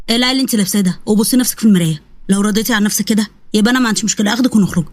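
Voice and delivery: a hint of a sneering man; dismissive husband.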